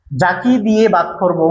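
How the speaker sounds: "যাকে দিয়ে ভাগ করব" said slowly, word by word; slow it down for the class; slowed teacher repeat. Shown as a demonstration. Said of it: "আবার বলছি". (ধীরে ধীরে বুঝিয়ে বলা)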